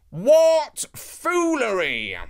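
high, slow, drawn-out scoff; scornful declaration. A narrator's reading. Anansi mocking the old lady's odd advice, high and scornful. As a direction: scoff loudly at such nonsense. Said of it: "declared Anansi".

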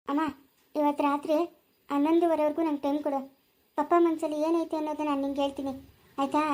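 low-key, gentle consoling; calm her down with a quiet promise; soothing reassurance. Acted. Daughter promising crying mother she will find out, soothing.

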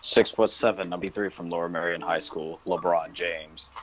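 PA announcer. Pretend. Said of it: "deep P A announcer voice".

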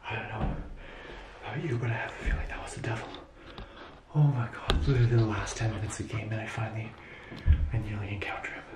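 shaky, breathless hushed voice; whisper, still shaken; nervous night vlog whisper. Real, not acted. Shaken, whispering after encounter.

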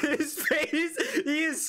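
laughing. Real, not acted.

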